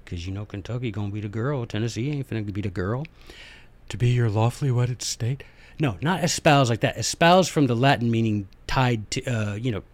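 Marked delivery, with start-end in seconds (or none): 3.9-5.4 mock wedding vows. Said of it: "We're not gonna have".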